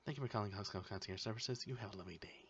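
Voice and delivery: sing-song call center sign-off; fast, sweet scripted goodbye; bright polished phone greeting. Retold or imitated. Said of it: "you had to memorize".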